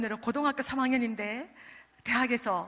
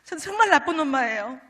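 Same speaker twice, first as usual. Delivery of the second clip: a mild replay of a desperate weeping plea; half-reenacted tearful cry to God; tearful prayer; 3 semitones higher, 5 dB louder than usual. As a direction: retell the crying prayer, pleading and loud in places. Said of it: "막 울었습니다".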